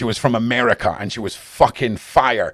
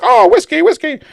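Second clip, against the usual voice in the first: mock whisky lover; 8 dB louder than usual. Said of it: "I should be like".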